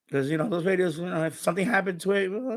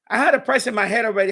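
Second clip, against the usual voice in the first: laughing; 4 semitones higher, 4 dB louder, faster than usual. Shown as a demonstration. Buyer laughing at his own haggling, said through laughter. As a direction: repeat it with a laugh breaking through. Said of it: "I'm going like this in my head".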